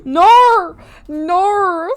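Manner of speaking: sharp high yell of protest; shouted no. Real, not acted. Streamer yelling at her pet, loud.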